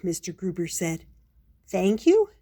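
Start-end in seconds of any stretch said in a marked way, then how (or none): 1.7-2.3 hopeful guess. Acted. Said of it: "Paddington tried".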